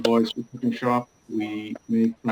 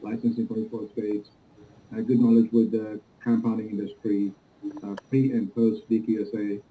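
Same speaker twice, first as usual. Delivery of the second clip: muffled. Real, not acted. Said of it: "It sounds like it's muffled".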